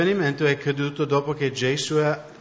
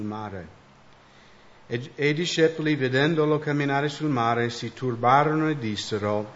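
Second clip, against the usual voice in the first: steady, solemn reading aloud in Italian; scripture reading. Acted. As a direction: read it out reverently for the congregation. Interpreter reads Italian scripture.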